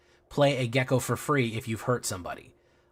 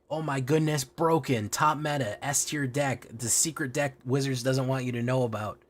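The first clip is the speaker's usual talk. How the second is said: higher, breathless mock hype; mock clickbait YouTuber; 3 semitones higher than usual. Mocking clickbait YouTubers to his viewers, light hype. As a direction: parody a clickbait thumbnail voice. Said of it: "shock YouTuber face ... and saying".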